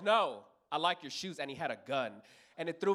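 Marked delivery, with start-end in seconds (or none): 0.0-1.4 deliberate mock threat from the mugger; slow menacing repeat. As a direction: make the compliment a warning.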